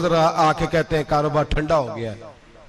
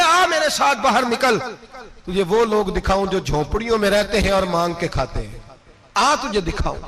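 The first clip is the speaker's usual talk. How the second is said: stern rebuke; 3 semitones higher than usual. Retold or imitated. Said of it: "हजरत उमर जलाल में आ गए".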